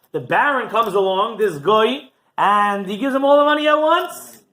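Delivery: high, emphatic courtroom argument; indignant accuser. Acted. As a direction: build to a loud, scandalized climax. Accuser argues before heavenly court.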